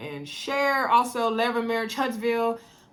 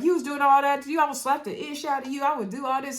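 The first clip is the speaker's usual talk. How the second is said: higher-pitched retold comeback; mock indignant; 6 semitones higher than usual. Woman retold firing back at her date, mildly indignant. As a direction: imitate an affronted comeback, pitched up.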